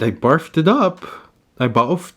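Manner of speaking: cutesy furry voice. Acted. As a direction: talk like a cartoon furry. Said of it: "Why am I talking like a furry?".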